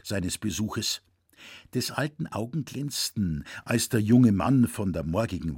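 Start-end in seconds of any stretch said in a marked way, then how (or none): none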